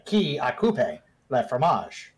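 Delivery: slow second attempt at French; bad French. Entourage member retries foreign phrase for guard, bad French. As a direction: have a slow, unsure go at French. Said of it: "I might be saying it wrong".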